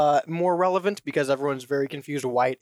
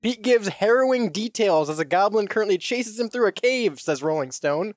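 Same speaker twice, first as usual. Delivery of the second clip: measured, dramatic headline reading; news read; 4 semitones higher than usual. Acted. Reads out a news story.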